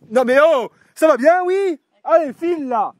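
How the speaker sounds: loud scolding of the dog; sharp scolding. Real, not acted. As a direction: shoo the dog away, exasperated.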